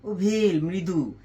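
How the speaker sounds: ওভেল মৃদু drawn out slowly and gently; slow and mild. Shown as a demonstration. Teacher demonstrating mild ovale to students, slow and gentle. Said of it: "জোরে উচ্চারণ হয় না".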